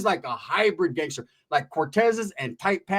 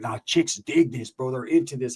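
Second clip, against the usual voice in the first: youngster; 5 semitones lower than usual. Retold or imitated. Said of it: "He's like".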